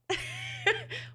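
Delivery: very high squealing laugh; real high squeal of laughter. Real, not acted. Laughing at obvious phrase.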